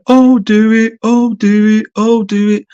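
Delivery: high, silly mocking singsong. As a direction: tease like a workplace wind-up merchant. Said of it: "that high-pitched, stupid voice".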